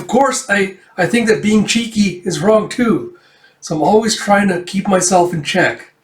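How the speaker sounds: high-pitched, flustered self-defence; flustered, embarrassed. A narrator's reading. Paria explaining herself to Amir, flustered and embarrassed. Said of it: "getting all flustered and embarrassed".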